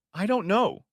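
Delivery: high-pitched, restrained narrated shout. A narrator's reading. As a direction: cry it out high, without much volume. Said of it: "she shouted".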